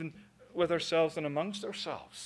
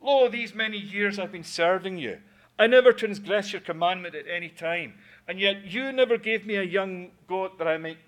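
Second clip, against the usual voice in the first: angry complaint; 2 semitones higher, 5 dB louder than usual. Acted. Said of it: "and he says".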